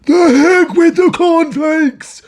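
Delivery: high, loud, drawn-out yell; exasperated outburst. A narrator's reading. Father dismissing his wife's remark, shouting. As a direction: explode over the trivial interruption.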